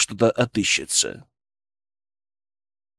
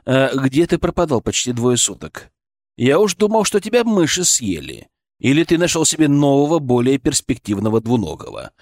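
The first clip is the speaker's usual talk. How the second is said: stern. Acted. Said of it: "мысленный голос звучал как можно строже".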